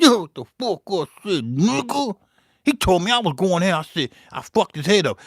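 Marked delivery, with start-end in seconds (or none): 0.0-2.2 louder, higher confrontational dare; mock-tough comeback to the churchgoer; tough repeat. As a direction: square up and say it again.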